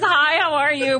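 a hint of the English star; a former pop singer. Guest correcting host's version, milder impression. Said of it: "But nothing like that".

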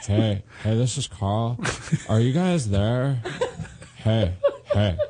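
drawn-out friend impression; repeated, stretched-out hey in a put-on voice; Carl. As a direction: put on a buddy's slow greeting. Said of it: "Do Carl".

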